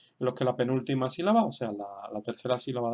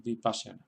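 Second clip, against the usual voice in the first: softer "Vipassana", accented on PAS; stress on second syllable; 3 semitones lower, 5 dB quieter than usual. Shown as a demonstration. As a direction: model "Vipassana" softly, leaning on PAS. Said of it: "ahí se queda el acento".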